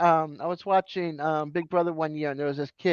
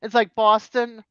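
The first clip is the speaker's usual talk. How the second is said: Boston accent; 5 semitones higher, 3 dB louder than usual. Shown as a demonstration. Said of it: "You hear it?".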